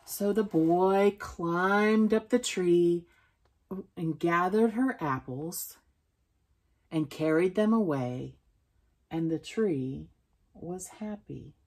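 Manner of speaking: put-on measured storytelling to a child; story read-aloud. A narrator's reading. Reading a picture book about a boy and tree, storytelling. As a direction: read it out slowly, easing off at the end.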